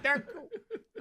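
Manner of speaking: put-on high, accented "thank you"; mock Spanish accent. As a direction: imitate her put-on accent. Imitating Kamala's accented thank you.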